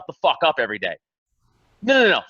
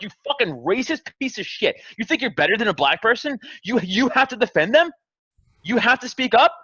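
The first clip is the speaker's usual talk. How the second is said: a mildly raised, mock-furious telling off; retold rant; 5 semitones higher than usual. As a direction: scold the racist, half in jest. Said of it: "I'm like".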